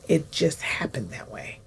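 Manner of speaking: hushed, breathy aside; whisper. Real, not acted. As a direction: drop to a whisper, almost to yourself. Recalling how closeness happened.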